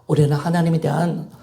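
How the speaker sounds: usual speaking voice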